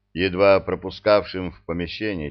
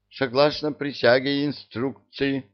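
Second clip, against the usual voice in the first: put-on perked-up old jailer; 5 semitones higher than usual. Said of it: "встрепенулся сухоньким тельцем бывший надзиратель".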